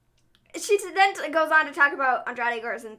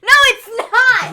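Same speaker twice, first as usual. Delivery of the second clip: laughing protest; 10 semitones higher, 12 dB louder, slower than usual. Real, not acted. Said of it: "laughing protest".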